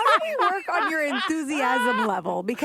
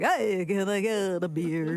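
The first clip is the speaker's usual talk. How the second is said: mock backwards voice; 10 semitones lower, slower than usual. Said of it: "Be like".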